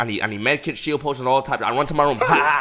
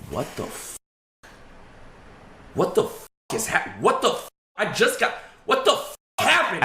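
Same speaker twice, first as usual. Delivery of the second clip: breathless, voiceless panic; stunned half-whispered panic at the bloody dogs; panicked whisper; 3 dB quieter than usual. Retold or imitated. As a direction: gasp the words out in shock. Finding his dogs bloody.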